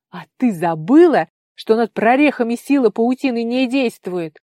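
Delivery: loud, irritated demand. A narrator's reading. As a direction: snap the question at her, annoyed. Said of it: "раздражённо спросил Тигир". (раздражённый громкий вопрос)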